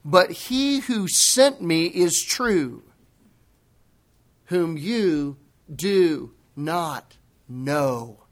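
slow, weighty scripture quote; measured boldness, word by word; bold prophetic pronouncement. Acted. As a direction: pronounce it solemnly, with long deliberate pauses. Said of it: "but utter prophetic boldness. He began teaching them".

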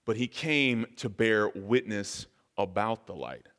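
measured, solemn reading of scripture. Acted. Pastor reading the opening of John to the congregation, solemn and measured. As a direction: read the Gospel out to the congregation, unhurried. Reads John's prologue aloud.

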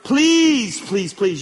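plead, leaning hard on the first word; begging. Real, not acted. Pastor pleads with the young people, begging. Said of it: "I'm begging you kids".

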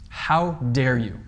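How dare you drawn out slowly, weight on How; slow stern rebuke. Shown as a demonstration. Preacher repeating Paul's rebuke slowly to let it sink in, stern. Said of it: "a rather loud and assertive way".

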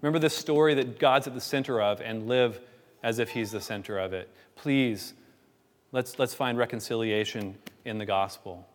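understated plea, pausing after each "please"; gentle pleading. Acted. Church member urging someone to turn from sin, pleading. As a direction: plead earnestly without raising the voice. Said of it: "And it's a pleading".

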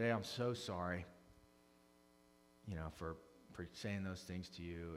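calm apology. Retold or imitated. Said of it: "And then I calmed down".

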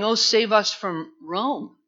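crowd shouting. Retold or imitated. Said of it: "They're shouting".

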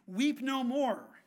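slow and loud, stress on "Weep"; commanding comfort. Retold or imitated. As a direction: stop their tears with one firm command. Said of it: "the elder says".

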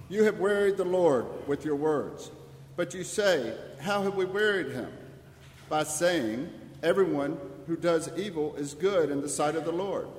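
ordinary talk

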